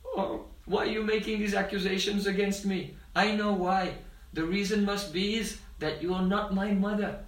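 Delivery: lightly acted wounded child accusing his mother; retold tearful indignation; tearful protest. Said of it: "tears come in his eyes".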